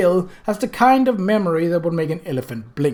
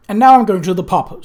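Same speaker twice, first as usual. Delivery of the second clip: snapped; 4 semitones higher, 7 dB louder than usual. A narrator's reading. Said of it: "snapped Albert".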